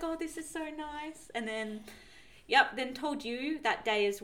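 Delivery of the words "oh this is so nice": high, soft and slow; retold tender delight. Mum welcoming the baby news, imitated tender coo. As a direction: imitate a moved, cooing mum. Mum's moved reaction, retold.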